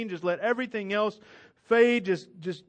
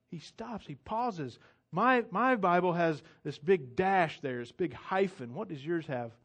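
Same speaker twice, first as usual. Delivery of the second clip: ordinary talk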